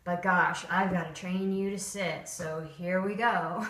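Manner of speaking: reluctant, unenthusiastic mock trainer; half-hearted, dutiful sigh of a voice; bored trainer. Shown as a demonstration. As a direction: sound like you'd rather be anywhere else. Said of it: "I don't want that face on my dog".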